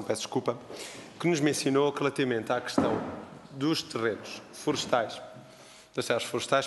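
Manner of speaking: hoarse, a little strained. Real, not acted. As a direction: speak through a sore throat. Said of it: "peço desculpa, estou rouco".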